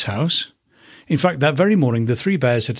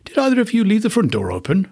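Mama Bear voice; 9 semitones higher than usual. A narrator's reading. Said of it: "said Mama Bear".

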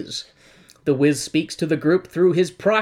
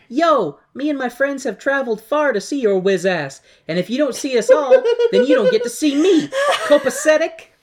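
cracking up mid-line, high; laughing; 11 semitones higher than usual. Retold or imitated. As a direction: laugh through the demand. Dorothy demanding, laughing.

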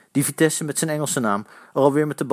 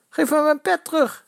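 shouting. A narrator's reading. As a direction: yell for your cap back. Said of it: "schreeuwde Jaap".

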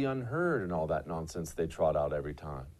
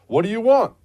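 louder, higher gruff demand; gruff policeman; 7 semitones higher, 9 dB louder than usual. Retold or imitated. Host reads the policeman's quote in a gruff voice. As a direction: bark it like a policeman. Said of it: "the policeman asked her gruffly".

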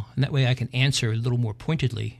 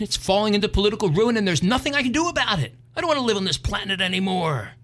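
lament; 8 semitones higher than usual. Acted. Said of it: "he lamented".

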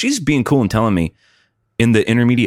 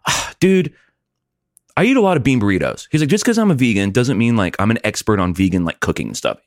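annoyed. Retold or imitated. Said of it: "very annoyed to me".

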